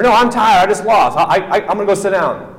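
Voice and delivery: a beaten wrestler whining at his teammate; whiny excuse. Retold or imitated. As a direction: make excuses like a sore loser.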